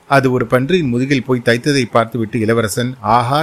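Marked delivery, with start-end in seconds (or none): 3.0-3.4 a light cheer of delight; mild triumphant aha; excited cheer. Acted. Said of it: "உற்சாக கோஷம் செய்தான்".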